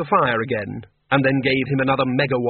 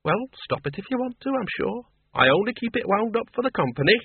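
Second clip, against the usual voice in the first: put-on brisk old farm woman, pitched higher; a blunt countrywoman who knows more than she says; Miss Flitworth; 9 semitones higher than usual. A narrator's reading. Farm woman voiced in story.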